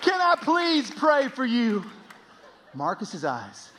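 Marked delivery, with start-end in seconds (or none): 0.0-1.8 loud, high, pleading redneck; hammed-up redneck begging to pray; redneck stranger. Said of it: "the most redneck human being you've ever met".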